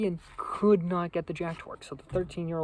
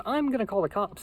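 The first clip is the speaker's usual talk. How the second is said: raised-pitch imitation of a scared guy; mock panic, pitched up; scared Josh; 5 semitones higher, 4 dB louder than usual. Scared Josh announces a call to the cops, mock-panicked high voice. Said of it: "he just seems scared".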